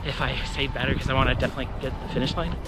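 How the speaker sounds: talking mid-jog; while running. Real, not acted. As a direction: speak while running along. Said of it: "I'm gonna go back to running".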